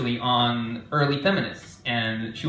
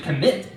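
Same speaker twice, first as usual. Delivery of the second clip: commit leaned on with extra weight; stress on commit. Shown as a demonstration. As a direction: punch the word commit. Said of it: "emphasis on commit".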